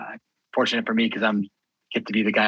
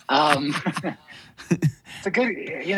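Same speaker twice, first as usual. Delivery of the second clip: laughing; 6 semitones higher, slower than usual. Real, not acted. Laughing before declining to howl.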